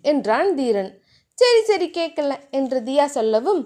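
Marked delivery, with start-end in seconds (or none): 1.4-2.3 put-on higher, bashful girlish voice; flustered young wife; shy heroine. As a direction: brush him off shyly, voice lifted.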